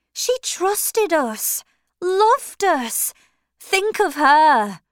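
anguished heroine. A narrator's reading. Maggie refuses, pleads for Lucy.

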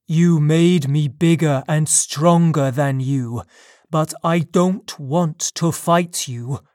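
lightly voiced monster, firm and loud; a hint of a powerful creature holding back; forceful creature. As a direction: insist firmly, as a lightly played monster. Creature answers the attack.

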